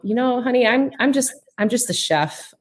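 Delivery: a hint of a sweet Southern chef calling someone honey; Paula Deen impression. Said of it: "Paula Deen said".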